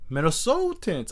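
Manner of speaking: a failed stab at a Minnesota accent; attempted Minnesota accent. Shown as a demonstration. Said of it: "I can't do the accent".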